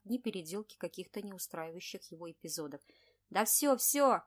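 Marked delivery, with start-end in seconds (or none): 3.3-4.2 loud tipsy yell; drunken shout. A narrator's reading. Tipsy director shouting down the phone. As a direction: bellow it down the phone. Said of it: "кричал слегка пьяный Шебякин".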